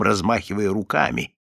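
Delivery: plain reading voice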